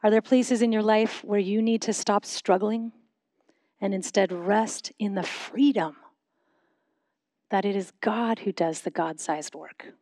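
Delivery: measured prayerful questions, long pauses between phrases; slow guided reflection. Real, not acted. Pastor leading a congregation in silent reflection before God, slow and measured. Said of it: "I'll say them slowly".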